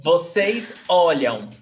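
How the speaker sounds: Olham with stress on OL; teacher correction. Shown as a demonstration. Teacher corrects student's olham, stressing first syllable. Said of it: "The stressed syllable is before last".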